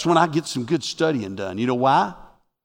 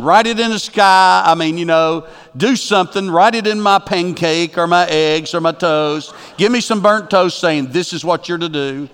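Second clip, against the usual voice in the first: louder, pushy imitation of a believer; mock demanding; 2 semitones higher, 4 dB louder than usual. Preacher imitating a believer demanding a sign, pushy. Mimicking people demanding signs.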